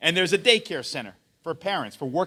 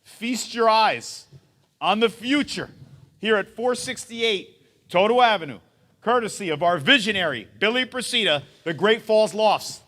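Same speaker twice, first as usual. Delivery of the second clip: announcer voice; 4 semitones higher, 5 dB louder than usual. Acted. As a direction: draw out each phrase like a game show host. Grand unveiling to the crowd.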